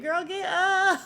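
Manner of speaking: high loud mock of Dom; hammed-up high yell at a friend on the floor. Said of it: "And Dom said".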